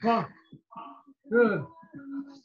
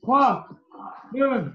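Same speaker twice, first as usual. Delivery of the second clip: loud clipped countdown shouts; barking gym coach; 2 semitones higher, 4 dB louder, slower than usual. Real, not acted. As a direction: bark the count at the class. (coach qui aboie le décompte)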